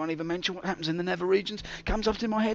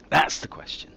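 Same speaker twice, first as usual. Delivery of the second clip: dramatic whisper; 7 dB louder than usual. Acted. Dramatic question.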